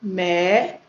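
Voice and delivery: "médico" in three spaced syllables, first one held. Shown as a demonstration. Teacher separating syllables for students, "médico" slowly broken up. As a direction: split "médico" up with gaps between syllables. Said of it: "aqui eu vou separar".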